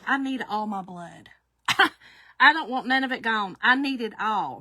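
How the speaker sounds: lightly voiced stubborn husband clinging to his blood; a hint of a goofy husband refusing to give blood; goofy insistence. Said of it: "He's like".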